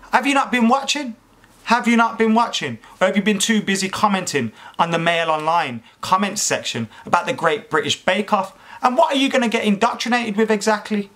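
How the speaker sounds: high-pitched incredulous questioning. Real, not acted. Mocking a commenter's indoctrination worry.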